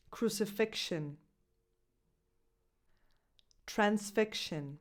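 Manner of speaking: Complexion, inflection, crucifixion, transfixion, luxury each with ksh. Shown as a demonstration. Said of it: "The third sound".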